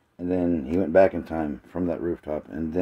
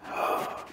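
audible intake of breath; gasp; 7 dB quieter than usual. Real, not acted. Speaker pausing mid-plan before next thought, gasp. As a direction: draw in a quick breath.

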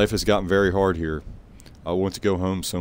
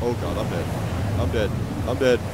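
scared horror game streamer. Real, not acted. About to be caught.

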